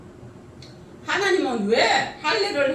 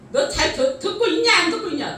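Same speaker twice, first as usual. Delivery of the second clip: louder, fast, rising mock scolding; scolding mother-in-law; 4 semitones higher, 5 dB louder than usual. Mother-in-law demands if daughter-in-law listens, fast loud nagging.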